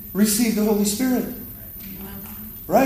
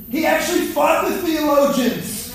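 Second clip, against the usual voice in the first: preaching shout; 5 semitones higher than usual. Acted. Preacher to congregation on Jesus and theologians, raised shout. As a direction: shout "He actually fought the theologians" up at the crowd, "fought" hit hardest. Preacher driving home his point.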